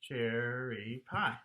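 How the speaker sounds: "cherry pie" slowly in three beats; measured, stretched "cherry pie"; matching rhythm. Shown as a demonstration. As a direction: chant "cherry pie" as cher-ry-pie. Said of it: "would match up with".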